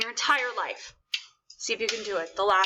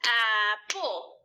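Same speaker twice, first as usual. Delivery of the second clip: "apple" split into two even beats; clapped syllables; 3 semitones lower than usual. Shown as a demonstration. Teacher shows "apple" as two clapped beats. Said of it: "when we clap apple".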